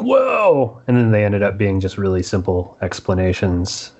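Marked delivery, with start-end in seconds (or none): 0.0-0.8 mock amazement. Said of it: "all the various twists were like".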